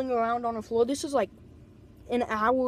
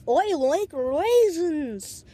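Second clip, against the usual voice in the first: put-on slow, drawn-out French-ish British kid; French-British accent; 4 semitones higher, 4 dB louder, much slower than usual. Imitating the kid he heard in his head, slow French-British accent. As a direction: sing it out high in a mock French-British accent. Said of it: "in some French kind of British accent".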